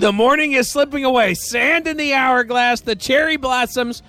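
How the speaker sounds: wax lyrical, lifted and lingering; mock poetic. Host waxes poetic echoing caller.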